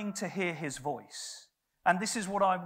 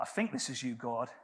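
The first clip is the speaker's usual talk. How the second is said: hesitant quiet prayer; 6 semitones lower, 5 dB quieter than usual. Retold or imitated. Unsure prayer to God.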